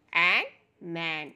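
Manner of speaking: drawn-out blending into मैन; slow phonics blend. Shown as a demonstration. Teacher blending sounds slowly for children. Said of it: "एम का sound है म".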